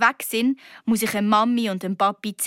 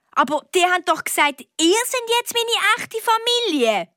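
high, upset outburst of disbelief; cried out; 10 semitones higher, 3 dB louder than usual. A narrator's reading. Girl protests to her dad about her real family, crying out high. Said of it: "rief ich".

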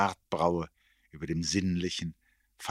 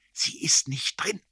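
slow, intense, high whisper; whisper in the ear; 11 semitones higher, 5 dB louder than usual. A narrator's reading. Erik blows it into the narrator's ear, whispering. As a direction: breathe it slowly into the ear, urgently. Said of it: "blies er mir ins Ohr".

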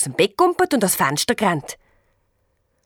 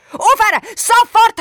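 much higher, much louder shout; bellowed command; 14 semitones higher, 8 dB louder than usual. A narrator's reading. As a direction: roar at them to stop. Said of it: "habe ich gebrüllt".

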